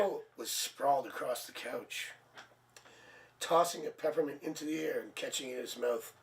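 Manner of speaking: mock seductive storybook voice; sultry romance reading. Shown as a demonstration. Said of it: "Let me read it like it's not".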